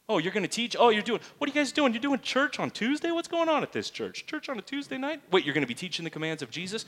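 high-pitched, tumbling excited questions; acted eager astonishment. Preacher playing someone discovering Tuesday church, astonished. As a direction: play amazed at what you have stumbled on.

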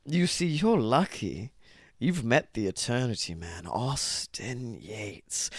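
slow, dark villain monologue; lightly sinister voice; haunting voice. Acted. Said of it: "such a dark, haunting voice".

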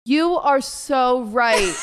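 very slow, drawn-out mock agreement; condescending. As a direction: agree word by word, laying it on thick. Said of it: "I'm being very condescending".

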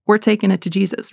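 a settled, confident announcement; firm statement. Shown as a demonstration. Parent telling a child with calm authority. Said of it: "You just go and tell them".

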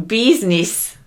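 a light Italian-American "business", first vowel as "bee"; Italian-American accent. Shown as a demonstration. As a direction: say "business" as "BEEZ-niss", mock Italian-American. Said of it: "an Italian-American way of pronouncing".

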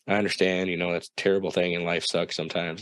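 calm, understated sympathy; super chill. Retold or imitated. Cousin's aunt consoling an upset teen, super chill. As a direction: take it easy, console without fuss. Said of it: "she's super chill".

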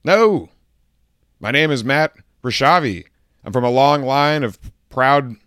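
hammed-up offended rant at the name mangler; going ham. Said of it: "just go ham on it".

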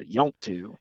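West Virginia redneck "yont to" said as one slurred word; a lightly voiced West Virginia redneck "yont to"; redneck drawl. Shown as a demonstration. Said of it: "as a redneck word is".

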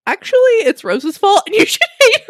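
giddy as she quotes a friend blaming Rose; eager quote. Retold or imitated. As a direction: rush to pin the blame on someone else. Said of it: "Blake's like".

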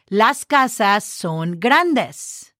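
slow, every word clear, casas drawn out; slow teacher demo. Shown as a demonstration. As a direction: say it slowly for learners. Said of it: "You just add an S at the end".

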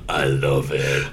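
hammed-up French lover; French creep. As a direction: squeal it like a smitten French creep. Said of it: "He's like".

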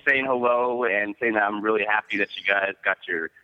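nervous fan voice. Pretend. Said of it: "that nervous fan voice".

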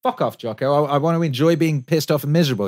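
whiny grumbling at Jocko; a touch of a petulant grump; annoyed self. Retold or imitated. Mock quarrel with Jocko.

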